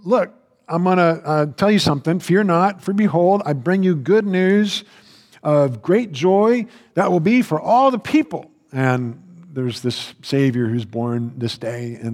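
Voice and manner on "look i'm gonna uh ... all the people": higher and louder, a bold herald; joyful angel. Acted. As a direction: proclaim it like a heavenly messenger. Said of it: "the angel shows up, and he's saying".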